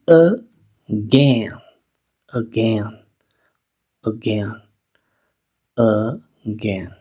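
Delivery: "Again" starting with a weak schwa, uh-GEN; initial schwa. Shown as a demonstration. Teacher modelling for students, weak initial schwa. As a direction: soften the first a of "Again" to schwa. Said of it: "La A va a sonar schwa".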